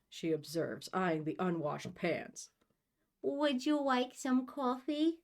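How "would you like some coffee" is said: high, slow put-on ooh voice. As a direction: offer it slowly in a silly ooh-ooh voice. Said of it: "ooh, ooh voice".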